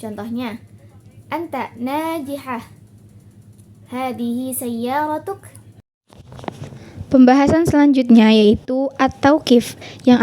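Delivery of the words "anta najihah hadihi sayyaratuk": "anta najihah", "hadihi sayyaratuk" slow, pitch lifted in amazement; amazement intonation. Shown as a demonstration. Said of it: "menyatakan kalimat kekaguman".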